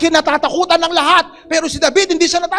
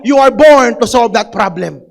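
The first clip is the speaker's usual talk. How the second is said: declaration to neighbor; 2 semitones lower, 7 dB louder than usual. Shown as a demonstration. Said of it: "Sabihin mo sa katabi mo".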